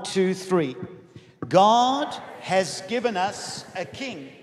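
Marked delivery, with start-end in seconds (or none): 1.5-4.3 measured, phrase-by-phrase recitation; leading group confession. Real, not acted. Preacher leads family in a confession together, reciting. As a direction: lead them word by word. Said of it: "We're gonna say this together".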